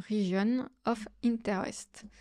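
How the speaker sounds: French speaker's careful English accent. Real, not acted. Tutor naming an English software option, in an attempted English accent. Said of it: "Un superbe accent anglais".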